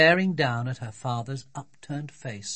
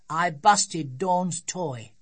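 put-on small child voice; 4 semitones higher, much slower than usual. Child confessing, slow.

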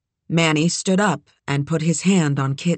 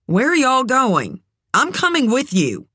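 calling out; 8 semitones higher than usual. Acted. Running after departing truck.

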